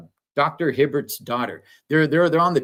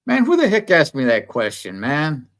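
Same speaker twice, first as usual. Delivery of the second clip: fired-up outburst; 3 semitones higher, 5 dB louder than usual. Real, not acted. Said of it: "got me all freaking fired up".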